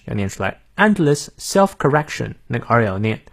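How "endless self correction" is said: British English pronunciation demo. Shown as a demonstration. Teacher models British pronunciation for learners, British accent. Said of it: "我们来看一下英式发音".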